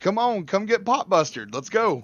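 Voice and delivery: high, loud goading; mock trash talk. Challenging a telemarketer to a game, loud playful goading. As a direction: egg the caller on, hammed up.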